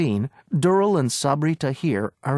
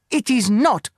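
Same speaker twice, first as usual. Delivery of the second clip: higher, louder insistence; shouted retort; 8 semitones higher, 4 dB louder than usual. Acted. Agent insists to the owner, shouted retort. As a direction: fire it straight back. Bargaining quarrel over key.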